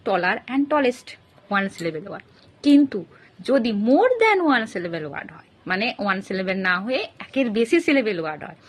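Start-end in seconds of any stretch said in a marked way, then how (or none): 0.1-1.1 slow clear demo. Shown as a demonstration. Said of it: "যেমন টল". 3.5-5.5 slow, deliberate teacher's emphasis; slow emphatic rule. Shown as a demonstration. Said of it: "teacher stresses rule".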